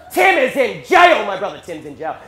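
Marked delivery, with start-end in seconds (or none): 0.1-1.3 slow, high, loud outrage; exasperated shout. Retold or imitated. Dying dad comparing his sons, shouting. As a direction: bellow it in acted disbelief. Dying father rants about other son.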